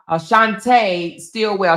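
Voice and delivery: "Shantae Stillwell" tried again with stress on "Shantae"; name retried. Shown as a demonstration. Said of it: "Is that how you say it?".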